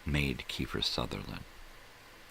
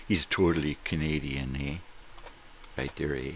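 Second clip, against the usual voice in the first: louder mock Canadian eh; Canadian accent; 4 dB louder than usual. Host teases a Canadian actor with a mock Canadian accent. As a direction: play up the Canadian "eh".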